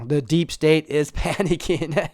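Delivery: laughing mid-sentence. Real, not acted. Vlogger gloating over panicking opponents, laughing. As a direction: chuckle through the words.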